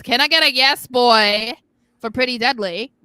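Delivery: loud crowd call-out; rally the crowd for the yes. Acted. Host hyping fans, loud call-out.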